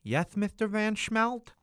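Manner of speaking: a lightly voiced grubby kid with a lisp; lisping, eager to please; lisping servant voice. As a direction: lisp every s, eager and humble. Slabo's lisping servile voice.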